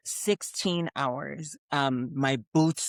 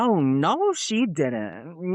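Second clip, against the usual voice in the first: indignant; much slower than usual. Retold or imitated. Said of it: "I'm like".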